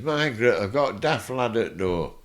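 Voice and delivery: a mock shout through the house; calling out. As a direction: call Margaret over from inside the house. The speaker calling his wife indoors.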